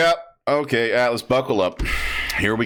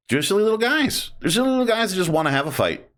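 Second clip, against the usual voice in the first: fond squeal; 10 semitones higher, faster than usual. Real, not acted. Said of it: "fond about orcs".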